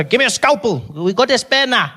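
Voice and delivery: a hint of a careless doctor. Imagined doctor fixing mom.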